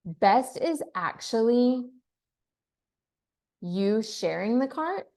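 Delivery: "is" stretched slowly; stress on is. Shown as a demonstration. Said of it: "We used to say best was".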